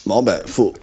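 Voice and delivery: slow, even robotic monotone. Pretend. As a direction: speak like a robot, slowly. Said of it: "Pourquoi tu parles comme ça tout d'un coup?".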